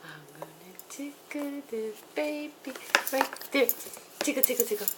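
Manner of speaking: giggly tickle attack. Acted. Mother tickling baby playfully.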